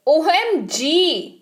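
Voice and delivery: slow drawn OMG; amazed OMG. Shown as a demonstration. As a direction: gasp it out in disbelief. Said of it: "हे भगवान".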